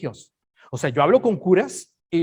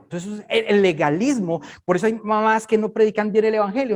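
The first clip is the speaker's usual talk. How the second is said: usual speaking voice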